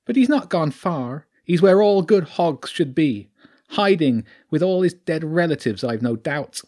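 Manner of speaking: taunting creature voice, high and loud. Acted. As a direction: gloat as the sly squatter weasel with a Sussex twang. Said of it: "Its voice was high".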